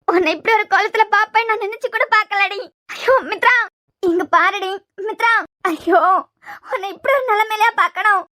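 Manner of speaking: hammed-up tipsy lament with sobs; theatrical boozy crying over the sleeping friend; drunken wailing. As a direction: wail over her like a drunk mourner. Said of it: "இந்த ஆளுக்கு அழுது".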